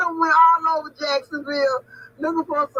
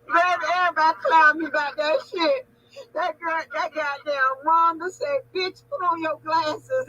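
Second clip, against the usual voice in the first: retelling the joke while laughing till she cries; laughing while telling; 3 semitones higher than usual. Real, not acted. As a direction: barely get the words out past the laughing.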